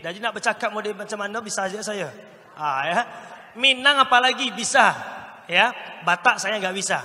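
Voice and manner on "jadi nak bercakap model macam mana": lightly put-on Malay accent. Shown as a demonstration. Trainer showing off that he can do Malay, lightly put-on Malay accent. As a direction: speak it like a Malay cartoon character. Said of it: "Melayu bisa".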